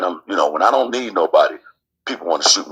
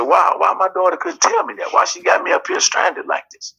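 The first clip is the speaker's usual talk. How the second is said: indignant retold outburst. Retold angry question to mother.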